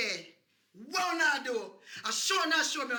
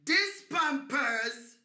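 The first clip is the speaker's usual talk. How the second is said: slow emphatic; 5 semitones higher, 3 dB louder, slower than usual. Acted. Slow demonstration.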